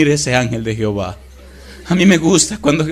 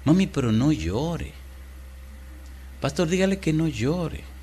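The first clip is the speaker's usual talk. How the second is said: voicing the child; 3 semitones higher, 5 dB quieter than usual. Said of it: "el bebé diciendo a la mamá".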